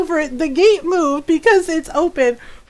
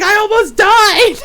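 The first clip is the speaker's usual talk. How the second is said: mock dramatic; 6 semitones higher, 6 dB louder than usual. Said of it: "she's just like".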